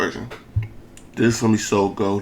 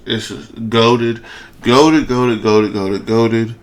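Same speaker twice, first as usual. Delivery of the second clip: hyped; 3 dB louder, slower than usual. Real, not acted. Hyped over new weapon.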